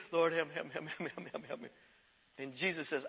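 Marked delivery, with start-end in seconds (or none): 0.1-1.7 help repeated, fading to near silence, laughing; fading whimpered plea. Retold or imitated. Person in a mess begging God, fading. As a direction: let the pleas die away softly. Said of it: "We need relief".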